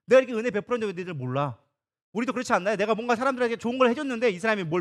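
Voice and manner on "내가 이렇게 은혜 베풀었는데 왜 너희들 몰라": sulky God. Acted. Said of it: "하나님이 삐진 거예요".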